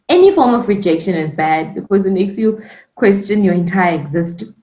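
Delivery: talking through hiccups. Real, not acted. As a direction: speak while hiccuping. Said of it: "now I have hiccups".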